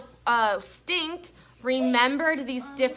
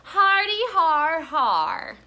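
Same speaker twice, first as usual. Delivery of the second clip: high, loud, drawn-out fake laugh; sarcastic laugh spelled out in words; mock chuckle; 7 semitones higher, 6 dB louder, slower than usual. A narrator's reading. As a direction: chuckle mockingly, slow and loud. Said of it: "chuckled Stink".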